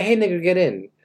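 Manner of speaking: a livelier shout-out from the car window; bolder call from a car. Pretend. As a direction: call it out confidently to the girl. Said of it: "No, actually a girl".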